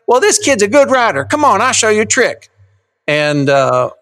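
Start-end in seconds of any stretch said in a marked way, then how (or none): 0.1-2.5 high cowboy voice, quick at first; zany cowboy pitched way up, Ross Perot style; High Beckman. Acted. Dad reading the cowboy to his kids, high voice up here. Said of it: "up like this".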